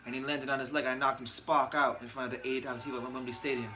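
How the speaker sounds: imitated Nottingham boxer reminiscing; understated English fighter's accent; Carl Froch. Host plays boxer retelling his knockout, imitated Nottingham accent. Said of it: "try to do a Carl Froch impression".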